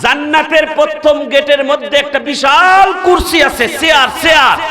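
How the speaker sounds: mildly shouted preacher's quote; calling out. Retold or imitated. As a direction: proclaim it to the crowd as Ali's words. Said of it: "হযরত আলী ডাক দিয়ে বলে".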